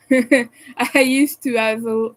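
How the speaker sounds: slow, chuckling through the words; with a chuckle. Real, not acted. Streamer telling chat she once had money, chuckling. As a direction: laugh it off ruefully. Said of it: "And I say that with a chuckle".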